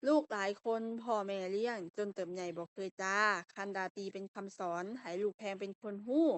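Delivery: measured verse reading, phrase by phrase; poem recitation. Shown as a demonstration. Teacher reads the exercise poem to students, verse recitation. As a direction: recite it as a Lao poem, pausing between lines. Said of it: "เดี๋ยวมาอ่านก่อนก่อน".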